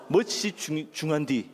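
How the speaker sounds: tentative Jeolla-accented attempt; lightly put-on Jeolla ending; Jeolla dialect. Shown as a demonstration. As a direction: test the Jeolla phrase, stumbling a little. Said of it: "전라도?".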